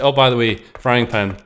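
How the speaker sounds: offhand mock announcement; casual game aside. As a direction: toss it in like an afterthought. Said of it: "it's like".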